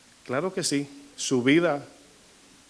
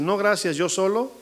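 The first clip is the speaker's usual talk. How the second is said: lightly voiced higher, proud "no thanks"; a hint of a self-reliant sinner refusing; mock refusal; 5 semitones higher than usual. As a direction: play the smug sinner turning down the gift. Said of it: "y tú dices".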